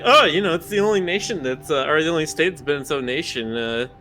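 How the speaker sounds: boastful state-pride pitch; proud Texan endorsement. Retold or imitated. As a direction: sell Texas like an ad. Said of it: "I'm doing the endorsement for it to be like".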